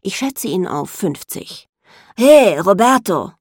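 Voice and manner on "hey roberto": loud, slow, hoarse call; hoarse croak. A narrator's reading. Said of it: "krächzt er mit heiserer Stimme".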